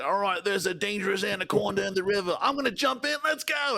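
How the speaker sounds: lightly voiced reckless Steve Irwin; gung-ho wildlife host. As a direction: pump it up like a daredevil jumping in. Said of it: "He'd be like".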